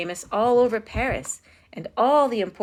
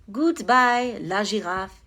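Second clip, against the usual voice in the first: fond goodbye; slower than usual. A narrator's reading. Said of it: "he said".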